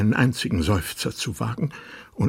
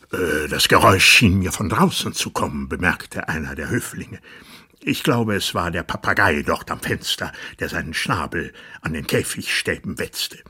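courtier's excuse; 4 dB louder than usual. Acted. Courtier explains the noise.

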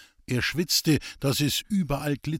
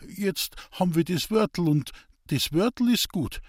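higher, eager dialect voice, defensive; earnest simple woodcutter; 7 semitones higher than usual. Acted. Hans-Peter defending his street preaching to the priest, higher and earnest. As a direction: plead your case like a rough honest man.

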